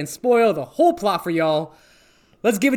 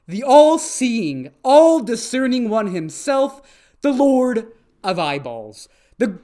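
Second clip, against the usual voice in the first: mock reverent; 2 semitones higher than usual. Mock reverent eyeball praise.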